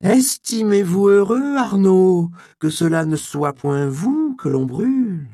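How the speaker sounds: loud, high, drawn-out threat; menacing threat. A narrator's reading. Inquisitor threatening the monk with burning, loud menace. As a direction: thunder it at the condemned man, stretching the opening.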